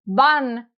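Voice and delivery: "van" firmly stressed on its own; isolated, emphatic "van"; stronger first syllable. Shown as a demonstration. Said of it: "first syllable is stronger".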